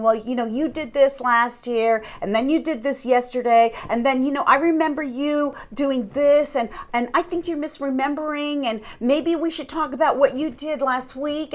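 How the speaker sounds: rambling imitation of circular accusations; talking in circles. Narcissist confusing their partner, mock rambling accusations. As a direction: run the complaints on without letting up. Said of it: "they start talking circles around you".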